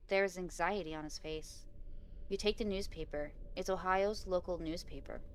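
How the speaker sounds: measured read-aloud of a game story; story narration. A narrator's reading. Player reading Bob's condolences aloud, measured story narration. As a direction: read it out evenly, pausing between phrases.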